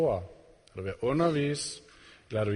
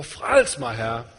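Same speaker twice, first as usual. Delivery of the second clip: et kort nødråb, hævet på frels; råb om hjælp; 3 semitones lower, 4 dB louder, much slower than usual. Retold or imitated. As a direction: kalder ud i panik fra bølgerne. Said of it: "og råber". (Peter råber til Jesus, mens han synker)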